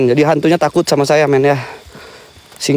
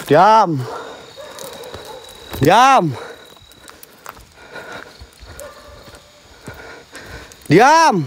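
drawn-out order, climbing much higher on the last; commanding; 5 semitones higher, 3 dB quieter, much slower than usual. Real, not acted. Self-styled mystic ordering a dog quiet, commanding. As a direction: order silence, stretching the word and raising the pitch.

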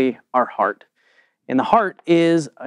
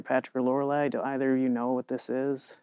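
whispering; 9 dB quieter than usual. Acted. Whispering to the kids.

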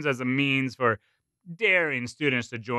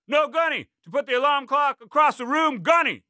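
cadet answering; 14 semitones higher, 4 dB louder than usual. A narrator's reading. Cadet correcting himself to sergeant.

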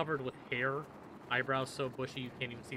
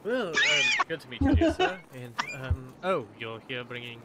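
welcoming Duergar guard; 9 dB louder than usual. Acted. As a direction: greet newcomers in a perky put-on voice. Game master plays the guard.

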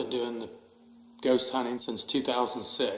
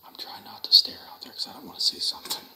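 scared whisper; faster than usual. Real, not acted. Afraid to look outside.

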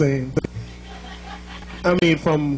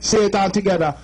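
Jamaican lesson. Shown as a demonstration. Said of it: "That's your first Jamaican lesson".

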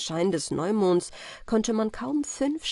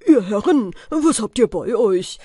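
mock-polite robbers; 3 semitones higher, 7 dB louder than usual. The smith imitating robbers demanding goods, mock-polite and loud. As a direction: play the robbers' sham politeness. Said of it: "und fragten ganz höflich".

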